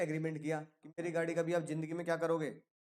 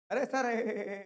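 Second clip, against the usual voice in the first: mock hearty laugh, pitched up; 5 semitones higher, 3 dB louder, slower than usual. Grateful owner laughs as he hugs his helper, mock hearty. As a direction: laugh it off warmly while hugging. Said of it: "करके हले हंस के".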